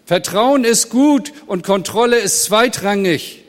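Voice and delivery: preacher correcting Lenin, loud and firm; firm emphatic rebuttal. Real, not acted. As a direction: push back hard against the proverb. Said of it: "ich widerspreche ihm".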